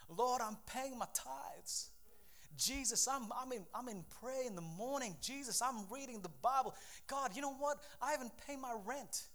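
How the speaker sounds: soft, subdued appeal to God; plaintive prayer. Acted. Believer complaining to the Lord about doing right, softly plaintive. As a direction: plead quietly, listing your good deeds.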